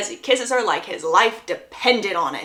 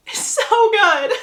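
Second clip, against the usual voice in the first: high, louder gushing with a laugh; laughing squeal; 12 semitones higher, 4 dB louder, slower than usual. Real, not acted. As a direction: draw it out, giddy and laughing. Gushing over a favourite scene.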